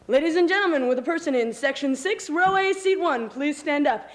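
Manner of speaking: lightly voiced circus announcer; head clown announcing. Head clown picks Kenny from the audience, announcing. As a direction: call it out like a circus clown addressing the crowd. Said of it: "the head clown says".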